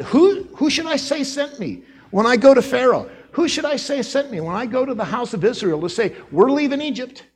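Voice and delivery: Moses asking. Acted. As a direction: plead to know who sends him. Moses questions God.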